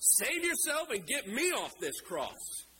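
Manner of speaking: lightly mock him, daring him to prove it; scoffing criminal. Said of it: "looks at Jesus and says".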